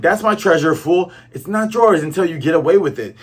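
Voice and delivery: mock crash out. Buggy ranting at Nami over the treasure, mildly heated. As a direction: snap it at him like a sore loser. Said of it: "crashing out".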